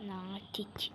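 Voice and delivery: breathy whisper of one word. Real, not acted. Gamer whispering during a tense moment. Whispering while game is quiet.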